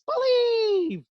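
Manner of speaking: very high, drawn-out shouted believe; retold call. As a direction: sing out believe as you drive away. Driver calls out driving off.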